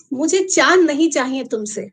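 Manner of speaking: measured poem reading with long pauses; unhurried verse recitation; poetry recital. Acted. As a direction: recite line by line, letting each phrase land. Opens second poem.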